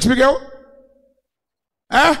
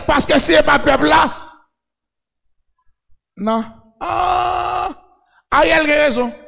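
full-force preaching; 3 semitones higher than usual. Real, not acted. Preacher telling the congregation who backs Ariel, full-force preaching. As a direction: hammer the point home to the congregation.

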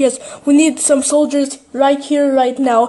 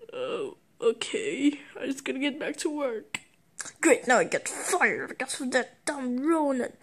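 muttered grumble; 12 dB quieter than usual. Acted. Fired worker grumbles about his boss, soft muttering. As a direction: mutter it under the breath.

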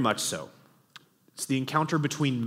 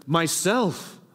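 louder and higher, bright with joy; loud and clear and gay; 5 semitones higher, 4 dB louder than usual. A narrator's reading. The voice answers Shasta a second time, loud and joyful. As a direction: ring it out gladly, like a proclamation. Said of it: "loud and clear and gay".

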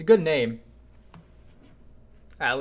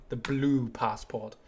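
slow, slightly lower mock politician; Boris Johnson; 4 semitones lower, slower than usual. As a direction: draw it out like an imitated British statesman. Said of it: "that's my favorite Boris quote".

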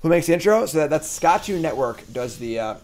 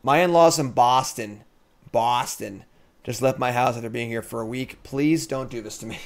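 put-on Boston accent; 4 dB louder than usual. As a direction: read the chat message like a Bostonian. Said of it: "mixing up my New York and my Boston accents".

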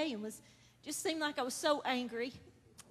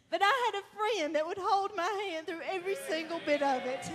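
laughing; 5 semitones higher than usual. Real, not acted. Laughing testimony.

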